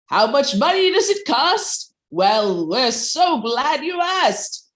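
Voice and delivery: upbeat infomercial pitch. Acted. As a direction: sell it like a late-night infomercial host. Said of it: "in the style of an infomercial".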